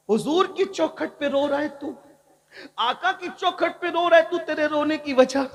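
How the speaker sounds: questioning the weeping man. Retold or imitated. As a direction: ask him high and concerned why he weeps.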